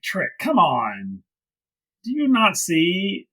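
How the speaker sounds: slow, drawn-out pleading; exasperated plea. Retold or imitated. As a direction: beg a friend to wake up. Acting out pleading with Trick.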